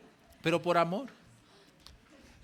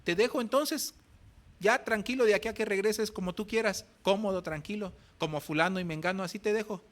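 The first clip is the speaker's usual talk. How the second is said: higher, mock-offended pastor; challenging pastor; 5 semitones higher than usual. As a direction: pastor calling his bluff, mildly mocking. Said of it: "El pastor le dijo".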